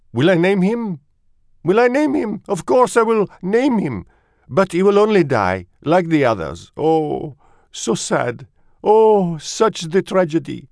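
put-on high, loud, melodramatic French accent; French mother mouse. A narrator's reading. Mother answers father about naming him, indignant then mournful, high-pitched. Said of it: "She was a French mouse".

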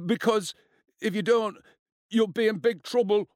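high, frightened, halting threat; quivering. A narrator's reading. Cornered boy warns two bullies of trouble, quivering. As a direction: threaten them timidly, pausing between phrases. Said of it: "Morpeth's voice quivered".

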